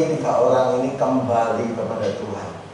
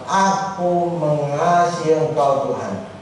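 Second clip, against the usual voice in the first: sincere; slower than usual. Acted. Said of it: "Dia sungguh-sungguh mengatakan".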